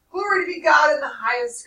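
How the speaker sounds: loud, high joyful exclaim; granny bursts out in praise; breathless praise. A narrator's reading. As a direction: shout praise while out of breath. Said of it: "Granny said almost out of breath".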